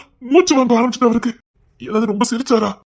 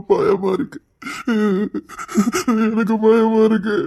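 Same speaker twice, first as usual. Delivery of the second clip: tearful fear; slower than usual. Acted. Sobbing, afraid for father.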